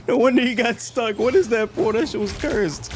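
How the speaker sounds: surprised. Real, not acted. Reacting to a strange portal.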